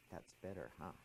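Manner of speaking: very soft, low murmur; little inner voice. Retold or imitated. Inner voice checking on the student after sunset, hushed. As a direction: murmur it like a small voice inside. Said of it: "this little voice said".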